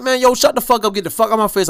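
worked-up, dismissive retort; retold angry outburst. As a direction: act out snapping at someone to back off. Retold angry confrontation at work.

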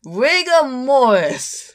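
slow, laughing through the words. Retold or imitated. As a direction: drag it out while cracking up. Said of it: "I would have been like".

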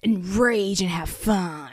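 mock laid-back California valley accent. Co-host replaying the rapper's interview, mock valley-dude accent. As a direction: parody an earnest valley dude, drawing out the last phrases. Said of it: "And the nigga was like".

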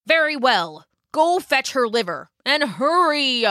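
a touch of imperious command; ordering dragon king. A narrator's reading. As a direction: hurry them off sharply.

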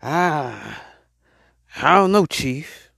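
slow, stalling reluctance; hesitant doubter. Acted. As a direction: imitate someone unsure and hedging. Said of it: "some people just saying".

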